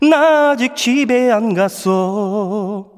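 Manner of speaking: slow, drawn-out show title; soft slow title read. Acted. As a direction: say it softly and slowly, drawn out. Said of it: "좀 부드럽게 시작해볼게요".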